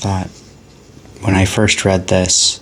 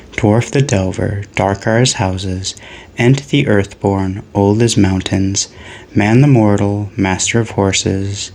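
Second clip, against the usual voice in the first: chanted list, each pair of words weighed; rhythmic, deliberate cadence; poem reading. Acted. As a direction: recite it like old lore. Recites Ent list of creatures.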